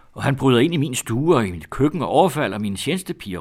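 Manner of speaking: loud, high-pitched complaint; indignant shout. A narrator's reading. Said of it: "råbte tante". (højt, forarget råb)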